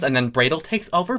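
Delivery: ordinary delivery, nothing marked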